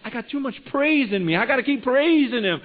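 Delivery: high, loud burst of joyful insistence; fired-up and high-pitched; exuberant praise. Retold or imitated. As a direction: imitate a patient bursting to praise. Patient refuses rest, bursting with praise.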